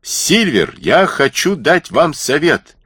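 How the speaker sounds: carrying call to someone nearing. Acted. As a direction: call out to him slowly as he approaches. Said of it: "крикнул он".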